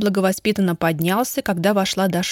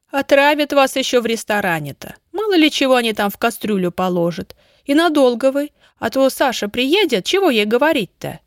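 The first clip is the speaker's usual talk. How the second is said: higher-pitched, lightly voiced suspicious country woman; grumbling village woman; 5 semitones higher, 3 dB louder than usual. Neighbour warning about restaurant food, lightly grumbling=9. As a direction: fuss and warn like a homely neighbour.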